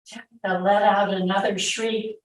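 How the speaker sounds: measured read-aloud narration with pauses; story narration. A narrator's reading. Mother recalling soldiers in her house, story narration. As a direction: read it out as a dramatic first-person tale.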